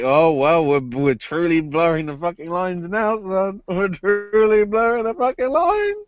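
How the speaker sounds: steadily climbing pitch; rising mock exclamation. Wrestlers truly blurring the lines now, climbing mock exclamation.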